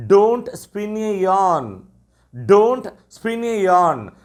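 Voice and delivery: each word drawn out for learners; slow teacher model phrase. Shown as a demonstration. Teacher drilling beginners, very slow and clear. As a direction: model it slowly for the class. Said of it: "அல்லது".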